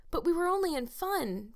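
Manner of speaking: high-pitched, pleading protest; persistent. A narrator's reading. Anne keeps arguing with Miss Barry, persistent. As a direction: insist it was innocent, voice lifted. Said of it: "persisted Anne".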